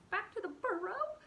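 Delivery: high, loud whimper rising on "burrow". Acted. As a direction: echo "burrow" as a frightened question. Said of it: "whimpered Fiver".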